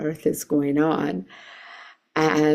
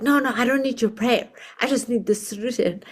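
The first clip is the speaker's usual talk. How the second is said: fast, raised, clipped-off dismissal; impatient refusal; 6 semitones higher, faster than usual. Retold or imitated. Supervisor refusing prayer, impatient and fast. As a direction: rush it out, annoyed and high. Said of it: "he was so frustrated".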